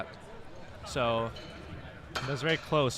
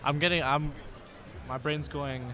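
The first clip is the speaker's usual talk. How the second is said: mumbling; 5 dB quieter than usual. Real, not acted. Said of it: "I'm, like, mumbling".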